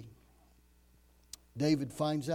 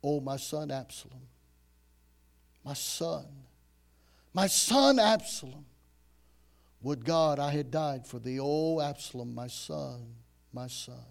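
king's lament; 4 dB louder than usual. Acted. King David mourning his son, swelling then fading. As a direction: mourn aloud as a grieving father. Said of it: "thus he said".

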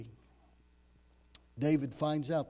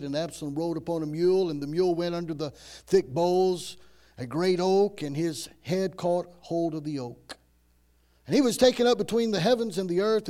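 loud, full-voiced sermon reading; preaching scripture; 8 dB louder than usual. Preacher reading Absalom's story aloud, loud and proclaiming. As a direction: proclaim the Bible story to the congregation.

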